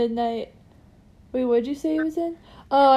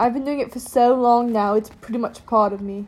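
quick put-on British accent. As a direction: chatter in a mock British accent. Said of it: "how to talk in a British accent".

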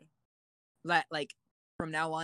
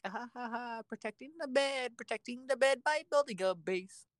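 high, lilting little voice; playful singsong; 6 semitones higher than usual. Acted. Gamer showing how innocently they defend the bed, high singsong. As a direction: play the harmless builder up high, merrily busy. Acts out playing harmlessly for fun.

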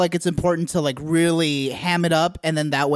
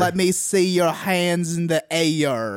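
Southern drawl; much slower than usual. Retold or imitated. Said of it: "another feature of Southern accents".

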